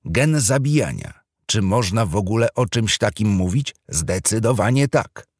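solemn TV documentary voice; serious TV presenter. Acted. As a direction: announce it like a solemn nature-show host. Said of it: "przemówił poważnym głosem speaker".

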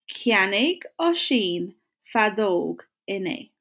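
Cheannaigh ó shin fadóg in A said slowly, word by word; slow it down so the class can follow; slow model sentence. Shown as a demonstration. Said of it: "say it with me or say it after me".

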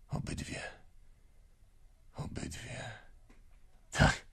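hushed whisper, choked up. Acted. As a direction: whisper it, heart breaking. Broken-hearted father whispering. (szeptem, ze ściśniętym gardłem)

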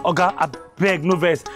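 low begging after an outburst; placating plea. Acted. Mechanic begs oga not to vex, low plea. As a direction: drop the voice and ask forgiveness.

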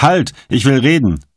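high yelp of pain; cry out. A narrator's reading. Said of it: "Kottmann schrie auf".

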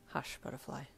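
very soft, low murmur; hushing. A narrator's reading. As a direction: hush her tenderly. Finger on lips, hushing her.

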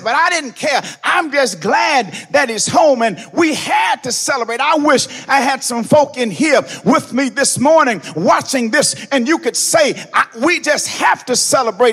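loud, sung whooping sermon cadence; black church whoop, building and loud; preaching at full force. Acted. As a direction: ride the organ with a chanting preacher's cry. Preacher tuning again with organ.

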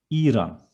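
İran with a long first E, ee-ran; long first syllable. Shown as a demonstration. Teacher showing İran with a long first E, ee-ran. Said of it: "The first syllable, E, should be a bit long".

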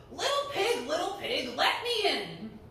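a hint of a menacing wolf; Big Bad Wolf. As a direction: play the wolf demanding entry. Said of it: "playing the role of the Big Bad Wolf".

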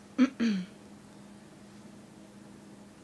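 stifled hiccup behind closed lips; swallowing a hiccup; suppressed hiccup. Real, not acted. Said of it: "Sorry, I have hiccups".

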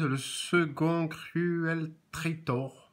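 slow, hammed-up English accent on the name; mock English accent. Shown as a demonstration. Reading the card name to viewers in a mock English accent. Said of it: "avec mon super accent anglais".

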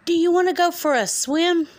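high, loud duck voice. Acted. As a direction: chirp it like a duck. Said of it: "called the duck".

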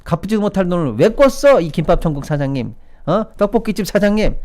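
high, accusing scold; mock berating. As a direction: call each culprit out in mock outrage. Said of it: "이러면서 욕을 얼마나 했습니까?".

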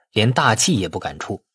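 usual speaking voice

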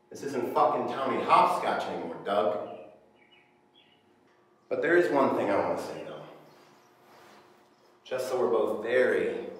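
loud, hard interrogation voice; tough cop. Acted. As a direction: lean in and threaten him. Agent raising voice in interrogation.

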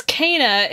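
Kena pronounced KAY-nuh; first-syllable AY. Shown as a demonstration. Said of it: "they do pronounce her name as Kena".

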